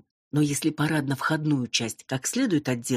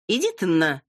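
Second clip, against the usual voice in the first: loud, higher snapped curse; barked curse; 5 semitones higher, 4 dB louder than usual. A narrator's reading. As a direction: bark it at her. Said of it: "рявкнула блондинка".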